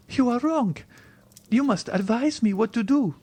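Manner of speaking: put-on high-pitched, wounded young woman; distressed heroine, very high voice; despairing Valentine. A narrator's reading. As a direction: cry out the reproach, high. Valentine insists.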